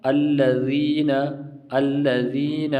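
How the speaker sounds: الذین slow, with a light tongue-tip th; thin letter. Shown as a demonstration. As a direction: draw out الذین without thickening. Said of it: "یہ باریک پڑھتے ہیں".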